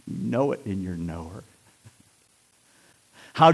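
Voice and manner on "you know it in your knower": low, soft, near-whispered conviction; hushed sermon. Acted. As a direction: lean in and hush it to them. Drops to intimate hush.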